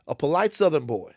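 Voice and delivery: lightly imitated Southern lady; a touch of Southern twang; Southern accent. Lady praising his manners, imitated Southern accent. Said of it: "They have very thick Southern accents".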